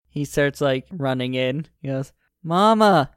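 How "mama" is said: put-on child's excited high call; calling out mama. Four-year-old boy calling to his mother, excited high call. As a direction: shout it like a little boy running to mom.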